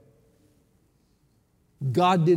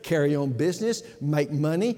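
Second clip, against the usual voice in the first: scripture reading. Acted. Preacher reading James to the congregation, emphatic. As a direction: read it out with weight.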